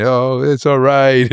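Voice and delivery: slow, reassuring comfort; soft comfort. Retold or imitated. Girl comforting him in Toronto, slow and soothing. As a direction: soothe him gently, slowly. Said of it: "It was so soft".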